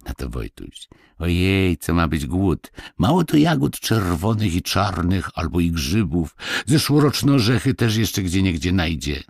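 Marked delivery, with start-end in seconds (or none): 1.2-9.2 lightly voiced lad, brisk and dismissive; carefree village boy. Wojtuś dismisses fears of hunger, lightly and cheerfully. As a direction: brush off the worry like a boy.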